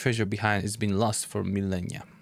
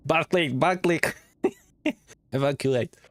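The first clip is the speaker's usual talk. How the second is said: alarmed outburst; 6 semitones higher, 4 dB louder than usual. Real, not acted. Trap triggered, reacting loudly.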